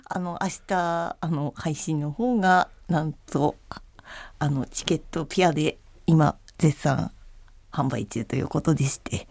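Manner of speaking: soft, hesitant, whispery; timid person. Shown as a demonstration. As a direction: shrink away and barely speak. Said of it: "ちょっと気の弱い人で".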